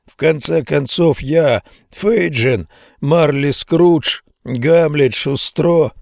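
put-on high, slow theatrical old man; grand old actor. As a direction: roll out each role name grandly. Old actor lists his roles.

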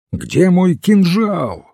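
high, urgent cry, words stretched; alarmed cry. A narrator's reading. Pale Seymour searches for his dagger, alarmed cry. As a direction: cry out for a weapon, pitch jumping high. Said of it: "крикнул он".

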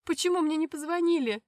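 loud, high desperate question; distraught. Acted. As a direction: demand it in shock. Аня в шоке от новости. (в отчаянии, громко)

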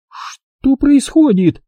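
high, slow, anxious; nervous. A narrator's reading. Jigger asks the room nervously, high and slow. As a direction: ask with rising worry. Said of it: "нервно спросила Джиггер".

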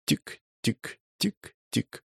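slow soft tick-tick of a clock; ticking imitation. Narrator imitates the suitcase bomb ticking, soft and slow. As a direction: mimic a ticking timer, quiet and slow.

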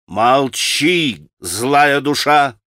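furious shout. Acted. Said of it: "яростно крикнула ему Грушенька".

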